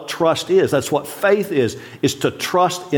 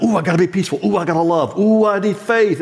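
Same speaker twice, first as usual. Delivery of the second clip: mock anxious striving; 5 semitones higher, faster than usual. Mocking strained anxious believer.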